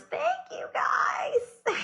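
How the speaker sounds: excited thanks. Real, not acted. Thanking singer, tearful shout.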